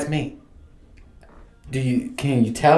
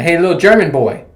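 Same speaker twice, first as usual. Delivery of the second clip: raised, higher calling voice; mock calling-out; 4 semitones higher, 5 dB louder than usual. Host imagines running in on ghost boy, bold mock hail. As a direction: hail the kid boldly.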